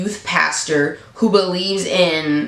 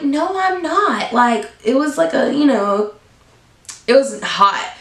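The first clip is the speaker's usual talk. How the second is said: mock giddy roommate; 5 semitones higher than usual. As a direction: imitate the roommate gushing. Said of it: "She was like".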